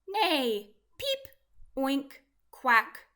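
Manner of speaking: loud barnyard calls, one by one; animal calls. A narrator's reading. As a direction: voice each animal's cheer in turn. Cheering animals in a story.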